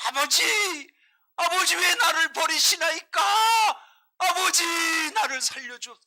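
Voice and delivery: high, loud desperate cry to the father; anguished shout. Acted. Preacher voicing the dying son crying to his father, anguished shout. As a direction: scream it out like a dying son begging to be saved. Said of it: "이렇게 외치는데".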